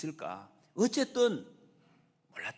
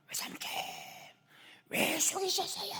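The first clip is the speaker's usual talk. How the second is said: high, strained shout of betrayal; angry outcry. Acted. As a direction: cry out in hurt, acted outrage. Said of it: "막 소리를 질렀을 것 같아요".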